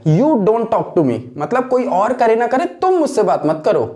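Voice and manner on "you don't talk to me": You stressed, the whole line very slow. Shown as a demonstration. Teacher voices an annoyed refusal, stressing You. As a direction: press hard on You, slowly. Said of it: "बहुत ही ज़्यादा दबाव देकर आप बोल रहे हैं".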